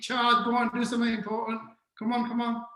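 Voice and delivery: half-hearted yell to urge the team on; mock shouting. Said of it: "You're shouting and screaming at them".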